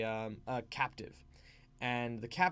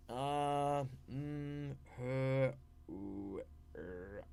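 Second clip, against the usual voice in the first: stalling for words; 5 dB quieter, much slower than usual. Shown as a demonstration. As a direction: hum and haw as if improvising. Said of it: "very clear signs that you are making stuff up".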